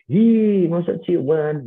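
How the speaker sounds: mock a kid catching parents kissing; surprised child. A child startled to see Dad kissed, squealing in surprise.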